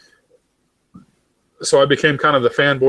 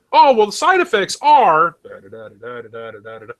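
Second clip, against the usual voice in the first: mock ad disclaimer; 4 dB louder than usual. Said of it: "fuck two minutes of side effects".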